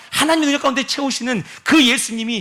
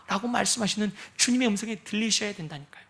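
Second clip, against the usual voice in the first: normal talking voice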